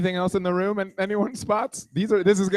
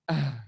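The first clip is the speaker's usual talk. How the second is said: lower, softer short moan; answering mock moan; 4 semitones lower, 5 dB quieter than usual. Man answering her moans, low mock moan. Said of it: "responding to her moans".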